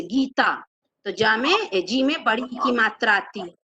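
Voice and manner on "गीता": गीता with a full, long "gee"; stress on GEE. Shown as a demonstration. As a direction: press on the first syllable of गीता. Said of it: "गीता में गी जोर पे बोला जाता".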